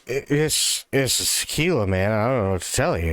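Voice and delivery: barfly lightly shrugs off the question; lightly voiced drunk. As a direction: shrug it off like a mildly tipsy guy. The drunk answers Joe, voiced.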